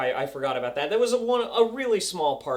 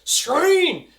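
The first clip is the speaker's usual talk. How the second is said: higher, much louder cheer; excited cheer; 8 semitones higher, 10 dB louder than usual. Retold or imitated. Fan finishing the episode, cheering loud. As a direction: cheer like your team just won. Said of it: "finished it and I was like".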